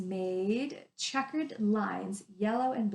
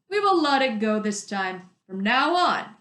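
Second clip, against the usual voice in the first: stern mayor; 6 dB louder than usual. Acted. Mayor lecturing girl.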